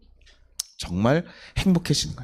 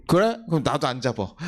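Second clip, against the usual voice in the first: hurt and petty; 2 semitones lower than usual. Retold or imitated. Father whose child let go of his hand, mildly petty. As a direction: play a mildly sulking dad. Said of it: "얼마나 속상하고 치사하고".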